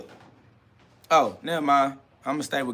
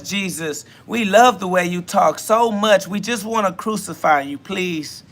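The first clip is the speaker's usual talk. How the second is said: higher, louder, sugary sweet pleading; mock fawning crowd; 4 semitones higher, 4 dB louder than usual. Mocking the crowd that begged Jesus, higher and sweet. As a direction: sweetly beg the savior, hammed up. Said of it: "You think they was like".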